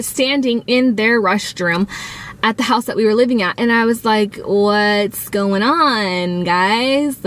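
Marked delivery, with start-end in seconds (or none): 4.4-7.2 slow, drawn-out careful question; wary mock innocence. Teen walking in on waiting parents, wary. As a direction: stretch it out as if sheepishly testing the water.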